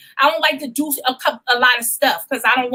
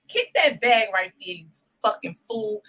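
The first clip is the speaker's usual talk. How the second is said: voice of God; 3 semitones lower, 5 dB quieter than usual. Retold or imitated. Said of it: "it's like God said".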